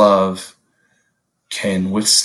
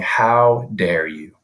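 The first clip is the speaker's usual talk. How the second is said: slow, measured mock indignation; lightly acted scoff, slowly weighted; imagined scoffing; slower than usual. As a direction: draw out a mock scolding, without raising the volume. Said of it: "scoffing at us saying".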